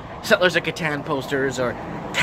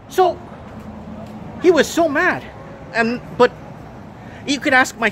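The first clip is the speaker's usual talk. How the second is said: venting his outrage; worked-up disbelief; 8 semitones higher than usual. Real, not acted. Venting about rival store owner.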